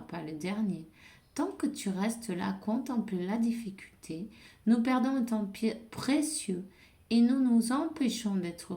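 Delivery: emphatic reading of an angel's pep talk; oracle message read-aloud. Acted. Angel urging someone to stop dwelling on difficulty, emphatic read-aloud. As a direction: read the message out firmly, punching key phrases.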